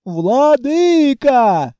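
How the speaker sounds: long, slow, loud howl of despair; wailing. Acted. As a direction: drag the word out in a howl. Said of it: "с новой силой завыли ящеры".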